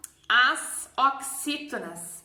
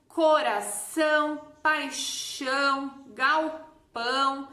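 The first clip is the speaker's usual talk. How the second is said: exemplos pausados; slower than usual. Shown as a demonstration. Teacher gives slow examples of tilde words.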